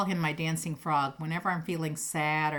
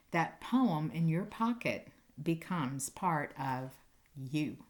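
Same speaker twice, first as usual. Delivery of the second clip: rhythmic, bouncing read-aloud; poem reading; slower than usual. Acted. Teacher reading a pocket poem to her students, rhythmic. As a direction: read it with a skipping beat.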